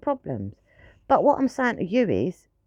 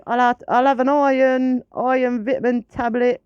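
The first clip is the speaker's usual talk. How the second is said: slightly higher, louder mocking whine; mock sarcastic voice; 3 semitones higher, 3 dB louder than usual. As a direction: sneer at the pill-takers. Mocking people replacing meat with pills.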